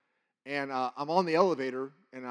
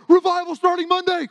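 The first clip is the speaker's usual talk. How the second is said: excited announcement; 13 dB louder than usual. Retold or imitated. Calling old friends, thrilled.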